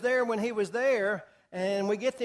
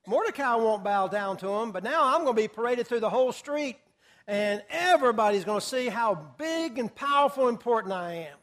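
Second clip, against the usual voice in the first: boastful; 4 dB louder than usual. Acted. Preacher voicing Haman's boast.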